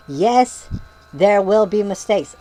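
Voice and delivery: slow mock shout; mock yelling. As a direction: drag it out like an angry comment. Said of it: "why you're yelling that at me".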